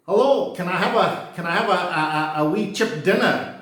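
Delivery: lightly put-on Glasgow accent, lifted pitch; rough Glaswegian accent. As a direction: imitate a Glaswegian ordering at the chippy. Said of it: "my Glaswegian is not all that great".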